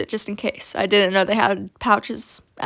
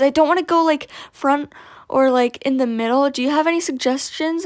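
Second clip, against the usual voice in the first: higher, a hint of a hesitant little girl; lightly voiced kid; 4 semitones higher than usual. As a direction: ask like a nervous young rider. Girl unsure where to sit.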